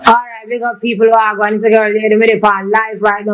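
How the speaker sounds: put-on Jamaican accent. Singer performs Jamaican accent for the host on request. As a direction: slip into a gentle Jamaican patois. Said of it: "Say something with the Jamaican accent".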